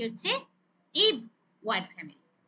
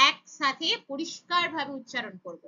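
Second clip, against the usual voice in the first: slow and deliberate; slower than usual. Real, not acted. Teacher stresses blending rule.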